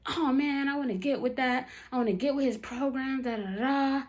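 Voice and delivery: retold drunk ranting. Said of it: "he's still going off".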